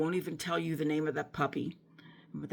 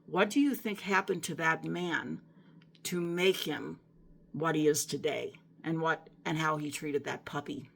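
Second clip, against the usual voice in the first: loving voice of God. Retold or imitated. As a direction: ask it kindly, like a patient loving guide. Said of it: "the voice was so loving and kind".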